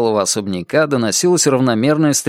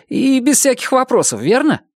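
higher, bright teasing youthful voice; cheerful young Chuck; 12 semitones higher than usual. Acted. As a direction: coax your tutor to quit for the day. (весёлый юноша, голос выше)

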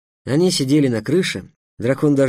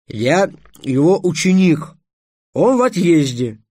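high, loud, emphatic reply; loud clarification; 6 semitones higher, 6 dB louder than usual. Acted. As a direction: repeat it clearly and emphatically. Trix repeats it clearly to dragon. (громко, высоко, с нажимом)

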